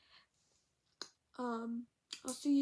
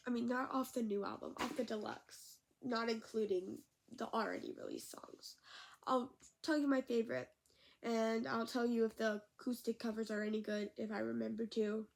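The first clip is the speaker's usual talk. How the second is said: talking with a stuffed-up nose; blocked nose. Real, not acted. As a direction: speak through a blocked nose. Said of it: "I can't breathe out of my nose right now".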